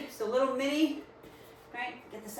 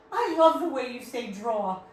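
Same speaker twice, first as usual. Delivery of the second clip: imitating a friend's amused laughter; louder, laugh through the teasing quote; 2 semitones higher, 5 dB louder than usual. Laughing friend teases her accent, laughing. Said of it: "she's laughing. She's like".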